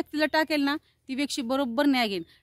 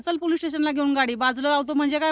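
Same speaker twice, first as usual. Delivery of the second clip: higher, indignant retold demand; confrontational; 4 semitones higher, 3 dB louder than usual. Passenger demanding driver go to police station, confrontational. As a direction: re-enact ordering the driver onward.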